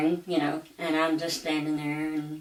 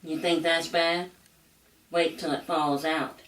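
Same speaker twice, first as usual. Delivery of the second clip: deadpan, unhurried and even; the older Cajun lady's calm, unbothered warning. Retold or imitated. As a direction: drop it calmly, like it's nothing. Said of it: "says in a very calm voice".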